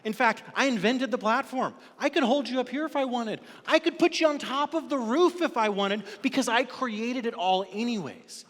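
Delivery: loud, high, booming promise; voice of God. Acted. God assuring the doubting giver, booming. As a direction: lift them up with mighty assurance. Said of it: "God says".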